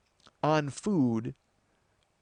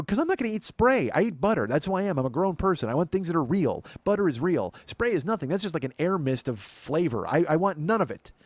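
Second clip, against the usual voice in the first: raised, pumped-up rant about butter; indignant rant; 3 semitones higher than usual. Retold or imitated. Ranting to his wife in the store, indignant and raised.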